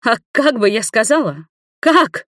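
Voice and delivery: high, loud cry of protest; shouting. A narrator's reading. Wrenching free, Nina shouts at Igor. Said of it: "закричала Нина".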